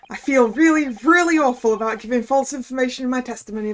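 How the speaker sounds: glib Cockney newspaperman; Cockney journalist. Acted. Journalist corrects his false testimony, in smooth Cockney. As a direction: talk your way out as a Cockney journo. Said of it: "making the journ-, uh, the journalist guy Cockney".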